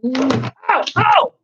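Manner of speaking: sudden high yelp of ow; real jolt of surprise; startled ouch. Real, not acted. Startled as her phone falls, a high yelp.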